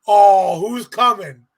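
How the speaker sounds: startled by the crowd's roar; a jolt of real surprise; surprised. Retold or imitated. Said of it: "and I'm like".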